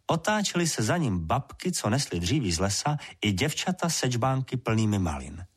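ordinary delivery, nothing marked

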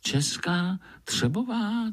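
surprised squirrel; puzzled wonder. Acted. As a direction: wonder aloud. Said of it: "Divil se Pája".

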